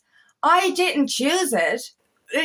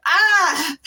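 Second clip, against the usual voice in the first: higher, exasperated "ah" let out; venting cry; 6 semitones higher, 4 dB louder than usual. Real, not acted. Speaker venting after shouting at self, exasperated cry. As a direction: let out a short release of frustration.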